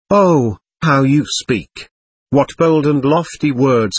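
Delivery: a touch of rapturous exclamation, slow at first; mild, understated cry of admiration; cried out. Acted. Lady marveling at the elder's words, a mild admiring cry. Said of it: "cried the lady".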